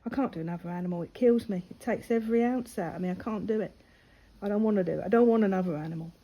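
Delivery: real distress welling up, pleading; upset, rushing the last line; getting upset. Real, not acted. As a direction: voice tightening as she gets upset. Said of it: "I'm getting upset now".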